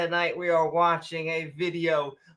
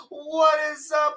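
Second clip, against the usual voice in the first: high, excited hello; excited greeting; 8 semitones higher than usual. Retold or imitated. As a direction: call out the greeting. Livestream greeting.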